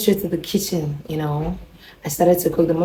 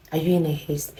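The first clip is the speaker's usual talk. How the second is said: softer, gently quoted question; 5 dB quieter than usual. Retold or imitated. Neighbor asks her visitor about rushing, soft. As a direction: imitate the soft-spoken neighbor. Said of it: "ah, soft".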